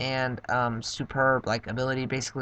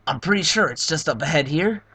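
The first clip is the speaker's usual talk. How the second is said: Bowser voice; 2 semitones higher, 5 dB louder than usual. Acted. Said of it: "Let me get my Bowser voice ready".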